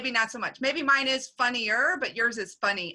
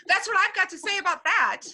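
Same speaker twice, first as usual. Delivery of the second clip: put-on Forrest Gump accent; 9 semitones higher, faster than usual. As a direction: toss off a Southern Forrest Gump line through a laugh. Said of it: "You did it much better".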